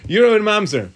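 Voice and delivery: high-pitched accusing jab, falling at the end; mock accusation. Rabbi playing the accuser's second charge, mock accusing.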